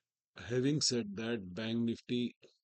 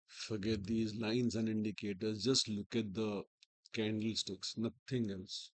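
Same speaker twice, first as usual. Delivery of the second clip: hoarse, strained from a sore throat. Real, not acted. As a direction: talk through a sore throat. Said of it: "I have a sore throat".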